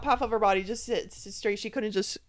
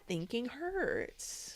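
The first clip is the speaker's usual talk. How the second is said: retold complaint; 3 semitones higher, 10 dB quieter, much slower than usual. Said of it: "but like she said".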